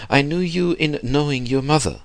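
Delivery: put-on high-pitched, eager old gentleman; old man's cry. A narrator's reading. Old man recalling Max's mother, a high eager cry. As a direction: insist fondly, pitch held high. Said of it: "cried the bonhomme".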